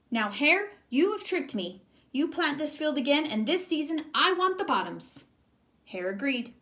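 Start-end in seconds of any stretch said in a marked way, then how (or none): 0.1-5.2 indignant Bear. Acted. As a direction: insist firmly, raised voice. Tricked Bear demands.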